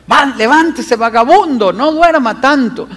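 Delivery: lightly voiced mother scolding her son; a hint of a nagging mum telling a lazy boy to get up; mother rousing her sleepy son, mildly mock yelled. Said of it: "una mamá gritándole".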